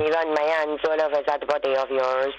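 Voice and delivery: put-on French accent. Partner seducing as French lad, French accent. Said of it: "do you know French accent?".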